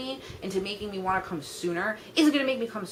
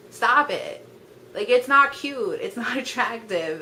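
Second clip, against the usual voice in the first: louder, slow exasperated telling-off; scolding; 4 semitones higher, 5 dB louder, slower than usual. Real, not acted. Scolding the guys on her list, loud and exasperated.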